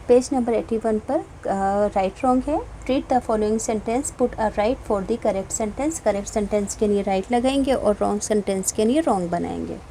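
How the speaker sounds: usual speaking voice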